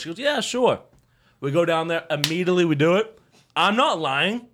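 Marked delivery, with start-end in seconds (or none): 0.2-0.8 high-pitched mimicked "yeah, sure"; imitated woman's reply. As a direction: quote her agreeing in a higher voice. Quoting the woman's reply to him.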